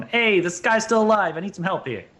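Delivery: loud, high call for help; yelling up. Acted. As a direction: shout up to the crew on deck. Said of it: "I'll yell up to everyone".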